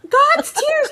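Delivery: high, breathless mock girl; little girl voice. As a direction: play a wide-eyed little girl. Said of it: "she's like".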